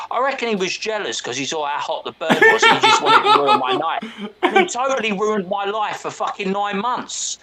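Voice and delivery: laughing through the words. Real, not acted. Laughing while telling a friend about the cop. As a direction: chuckle at how unfair it was. Laughing at own bad luck.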